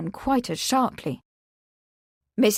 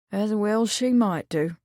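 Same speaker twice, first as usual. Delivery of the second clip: sighing sadly. Acted. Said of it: "he sighed".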